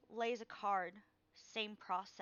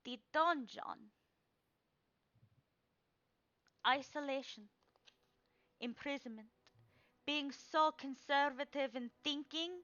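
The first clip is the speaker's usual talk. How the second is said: put-on higher old woman intoning the card; old crone seer; 5 semitones higher, 6 dB louder than usual. Crone reading Tyrion's card, solemn and high. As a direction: pronounce each omen like a fortune teller.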